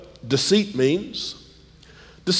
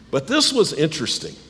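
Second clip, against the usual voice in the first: slightly hoarse, losing voice; 4 semitones higher than usual. Real, not acted. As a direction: talk through a tired, losing voice. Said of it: "I'm losing my voice a little bit".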